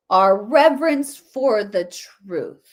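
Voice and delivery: a slow, light imitation of the speaker; mock earnest tone. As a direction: savour the phrase slowly in mockery. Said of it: "don't you love how though she says it".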